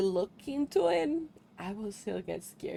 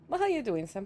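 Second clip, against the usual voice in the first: put-on cowboy accent. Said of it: "to commit to the accent".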